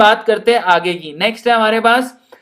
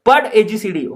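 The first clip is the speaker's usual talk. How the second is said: Rajasthani scolding; 3 semitones higher than usual. Acted. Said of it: "madam कहती है".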